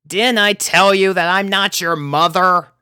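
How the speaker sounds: fed up, let it out; groaning complaint. A narrator's reading. Rainbow scolding the clingy pugs, exasperated groan. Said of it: "groaned the blue Pegasus".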